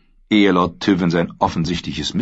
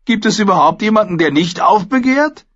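higher, amused lord; a raised, jovial lord's voice; Mace Tyrell voice; 6 dB louder than usual. Acted.

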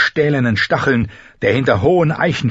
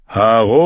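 howling war horn; 4 dB louder than usual. A narrator's reading. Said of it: "heulte es".

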